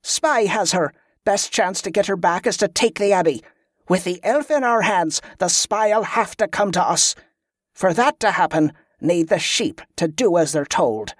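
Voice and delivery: lightly acted field commander briefing soldiers; commanding leader. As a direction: lay out the plan with authority. Commander lays out her plan.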